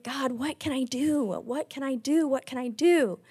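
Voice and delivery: mock-sobbing plea, softly voiced; retold tearful plea. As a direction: plead to God, lightly imitating tears. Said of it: "I'm crying and I'm sobbing".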